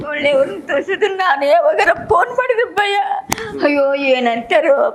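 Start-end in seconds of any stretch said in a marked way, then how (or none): 0.1-2.9 laughing through tears. Real, not acted. Grateful grandmother, laughing and crying.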